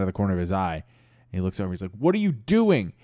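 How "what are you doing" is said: higher-pitched baffled question; incredulous. Acted. Brad spotting Chad near the bag, incredulous. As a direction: call him out in mild disbelief.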